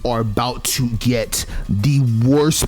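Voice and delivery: slow, deliberate vengeful vow, a touch hammed-up; half-joking angry promise; mock furious threat. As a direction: spell out the revenge slowly like a mock grudge. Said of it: "you see how pissed off she is".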